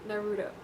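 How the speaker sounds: "Naruto" said na-roo-toe with an American flat a, quietly; a grudging American "Naruto". Shown as a demonstration. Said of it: "I hate saying it with American accent".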